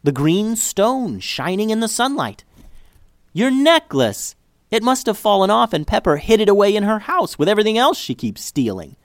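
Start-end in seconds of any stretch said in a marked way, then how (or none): 3.3-9.0 high and loud, slowing on the first words; excited outburst. Acted. Girl thrilled that the lost necklace is found. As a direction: burst out in joyful relief.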